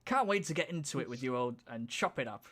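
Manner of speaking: light mock Cockney accent; a hint of Cockney. Narrator voicing Terador in a light Cockney accent. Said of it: "Southern Cockney accent or something".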